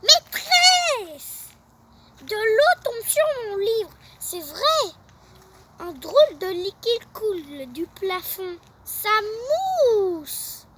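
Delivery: high loud urgent call; yelling. Acted. Tom yelling to the teacher about liquid dripping. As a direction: shout for the teacher. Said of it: "Tom hurle".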